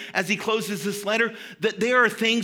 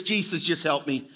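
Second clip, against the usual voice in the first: low-pitched mock desperate prayer; pleading prayer; 4 semitones lower than usual. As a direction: pray for help in a lowered voice. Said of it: "My prayer was".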